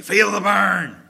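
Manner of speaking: rough, loud, barked-out delivery. Remembering an old coach's sayings, imitating Coach Holacek's rough voice. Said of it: "Rough, rough, rough".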